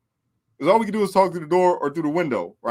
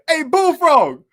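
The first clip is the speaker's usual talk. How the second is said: high call across the yard; 10 semitones higher, 7 dB louder, much slower than usual. Retold or imitated. Inmates on the yard calling for Bullfrog, high shout. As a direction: shout up to the window. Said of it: "He said".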